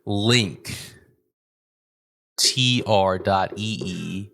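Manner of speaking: slow, careful link read; slow announcer read. Shown as a demonstration. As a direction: spell the link out slowly. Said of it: "Now do the highs".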